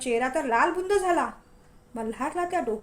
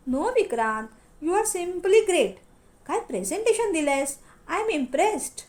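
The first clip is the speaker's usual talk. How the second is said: gushing on phone; 4 semitones higher, slower than usual. Acted. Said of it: "फोनवर हसत हसत".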